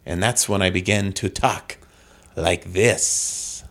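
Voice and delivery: hammed-up tale with swooping inflection; theatrical inflection. Comic guest tells of falling from a tree, theatrical inflection. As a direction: tell it in an exaggerated comic cadence.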